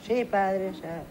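son answering. Acted. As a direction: play the obedient little boy. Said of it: "¿Estás anotando?".

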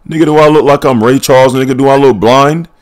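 loud, high, offended retort; indignant shout. Real, not acted. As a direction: act insulted by the question. Mocking the game's guidance prompt.

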